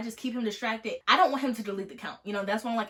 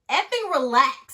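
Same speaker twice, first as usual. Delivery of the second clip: louder, slow mock snap at him; annoyed snap; 4 semitones higher, 8 dB louder, slower than usual. Snapping back at the rude hacker, slow and loud. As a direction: bite it out slowly, fed up. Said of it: "I'm like".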